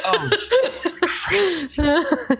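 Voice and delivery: high, drawn-out exclamation; slow, high-pitched mock dismay; acted dismay. Looking at a companion after the seizure, high dismayed exclamation. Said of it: "looks at Paladin and goes".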